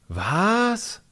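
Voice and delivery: shocked, high yelp; horrified Was. A narrator's reading. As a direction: jump out of your skin on Was. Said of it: "machen Finn und Heile entsetzt".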